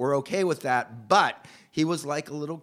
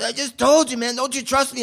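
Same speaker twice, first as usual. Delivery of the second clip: higher, louder mock defensiveness; defensive snap; 9 semitones higher, 8 dB louder than usual. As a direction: push back like he's offended. Jaime defensive when questioned.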